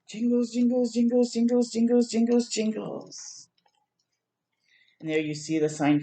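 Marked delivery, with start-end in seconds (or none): 0.1-3.5 jingling sound. Retold or imitated. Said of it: "it goes".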